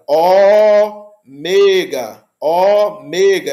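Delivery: "ômega", slow, with the first "ô" long and open. Shown as a demonstration. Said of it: "é o ó grande, ó longo".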